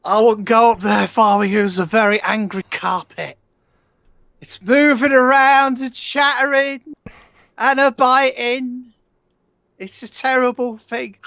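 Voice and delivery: ominous warning. Acted. Warning about the angry carpet.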